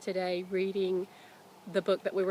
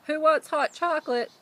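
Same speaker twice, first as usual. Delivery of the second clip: dad calling out; 8 semitones higher, 7 dB louder than usual. Acted. Dad calls from kitchen.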